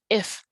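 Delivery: "if" said short, almost cut off; cut-off short vowel. Shown as a demonstration. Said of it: "those are cut off almost".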